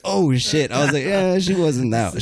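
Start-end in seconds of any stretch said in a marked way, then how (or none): 0.0-0.7 higher-pitched retold oh-no reaction; caught out. Guy learning the drunk girl is her sister, caught out. 1.0-2.2 high, drawn-out retold backpedal; slowly walk it back in a raised pitch. Guy taking back his insult to the sister, backpedaling.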